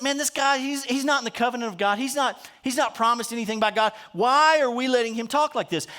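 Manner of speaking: a lightly voiced boy, fired up; indignant young David. Preacher voicing young David protesting Goliath's taunts. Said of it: "And he says".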